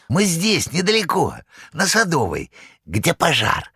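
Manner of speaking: high, odd oily promise; Korovyev's wheedle. A narrator's reading. Korovyev promising the saleswoman payment, high oily wheedle.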